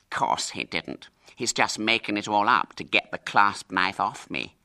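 lightly voiced bland boy; a hint of smug denial. Hubert lying to his mother, lightly bland. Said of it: "Hubert met her eye blandly".

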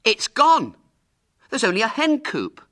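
loud, high-pitched fake alarm; feigned horror shout. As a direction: shout the news as if horrified. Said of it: "he shouted in well-simulated horror".

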